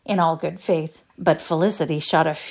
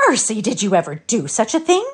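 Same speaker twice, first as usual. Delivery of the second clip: higher, louder gasp of shock; Felicity, shocked at Peter, exclaims in horror; horrified exclamation; 5 semitones higher, 4 dB louder than usual. A narrator's reading. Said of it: "exclaimed Felicity in horror".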